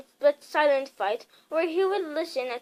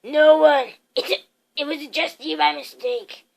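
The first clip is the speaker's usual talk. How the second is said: short; 7 dB louder than usual. A narrator's reading. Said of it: "said Uncle Vernon shortly".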